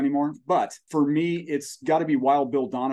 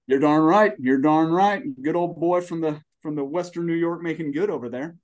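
louder, higher folksy Southern accent; 3 semitones higher, 4 dB louder than usual. Real, not acted. Guest proudly cheering a fellow New Yorker, in a Southern accent. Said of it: "did your accent just change".

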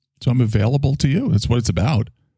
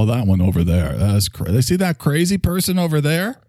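mocking judgmental gossip; 8 semitones higher than usual. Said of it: "And we like to go".

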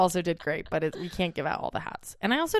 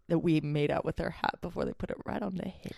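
hushed conspiratorial whisper; breathy secret aside; 6 dB quieter than usual. Real, not acted.

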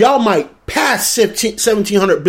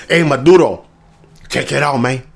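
lower-pitched mock Latino accent; put-on Latino accent; 6 semitones lower than usual. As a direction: greet him in a hammed Latino accent. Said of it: "he's gotta put on that accent".

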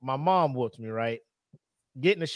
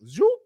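mock zoop sound; 12 semitones higher than usual. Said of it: "She was like".

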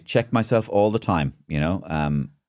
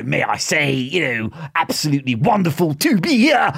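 Jacob Rees-Mogg type; 8 semitones higher, 4 dB louder than usual. Acted. Comedian sends up politicians to an interviewer, grandly high-pitched. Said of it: "all these crazy Jacob Rees-Mogg people".

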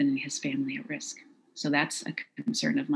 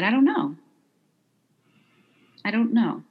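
scared reply; 7 semitones higher, 4 dB louder than usual. Retold or imitated. Retelling terrified answer to attacker.

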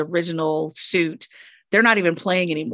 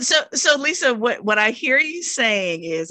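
coaching voice; 5 semitones higher than usual. Pretend. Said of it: "I'm using my coaching voice now".

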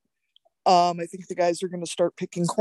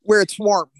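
sarcastic; 3 semitones higher, 5 dB louder than usual. Acted. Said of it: "the sarcasm in my voice".

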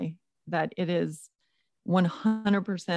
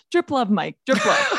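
teasing; 5 dB louder than usual. Pretend. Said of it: "I get to tell you".

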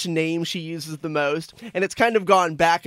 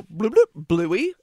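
higher, louder mock kid chant; kids at daycare; 3 semitones higher, 3 dB louder, slower than usual. Dad imitating daycare kids ordering the remote, playful. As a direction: bloop it like a preschooler. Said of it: "they just go".

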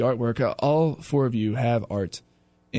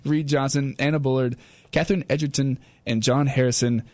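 breathless at the end of a long name list; winded from reading names nonstop; out of breath. Real, not acted. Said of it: "I'm out of breath".

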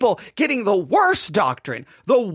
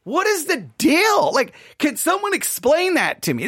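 higher-pitched, exasperated questioning; perplexed; 4 semitones higher than usual. Retold or imitated. Listener puzzled that nobody answers the pastor, perplexed. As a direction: stretch out the question in bafflement. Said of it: "you're like".

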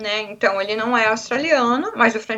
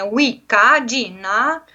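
put-on Australian accent; much slower than usual. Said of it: "mania de colocar o A".

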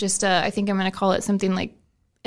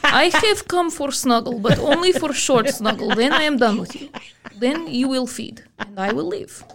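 put-on Russian accent; 3 semitones higher than usual. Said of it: "we always do Russian voice for our cat".

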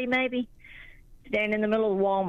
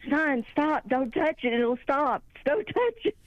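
mock panicked pleading; 6 semitones higher than usual. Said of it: "I was going".

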